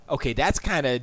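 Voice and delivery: ordinary delivery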